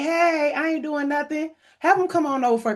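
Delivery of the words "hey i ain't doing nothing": lightly voiced celebrity guest, higher pitch; hint of a cartoon star, pitched up; Mark Hammond. Host mimics a guest with nothing to do, light impression. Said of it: "he's over here like".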